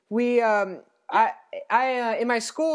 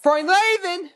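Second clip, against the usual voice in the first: higher, louder put-on cartoon voice; Paul Rugg; 8 semitones higher, 5 dB louder, slower than usual. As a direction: cheap imitation, belted out in a high voice. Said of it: "in the Paul Rugg voice".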